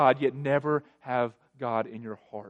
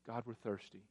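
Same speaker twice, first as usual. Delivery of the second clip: much softer imitated complaint; mock grumbling; 2 semitones lower, 14 dB quieter than usual. Preacher imitates thirsty Israelites grumbling to God, softly. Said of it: "They start grumbling".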